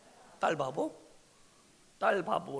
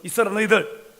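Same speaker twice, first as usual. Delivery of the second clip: stern order; 3 semitones higher, 10 dB louder than usual. Acted. Abraham orders the servants.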